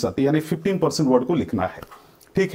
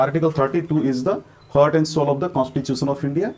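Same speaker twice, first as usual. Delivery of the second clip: slow reading; much slower than usual. Shown as a demonstration. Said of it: "reads the question again slowly".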